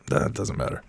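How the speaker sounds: whispery lost voice. Real, not acted. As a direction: voice gives out to a whisper. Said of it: "So, nope".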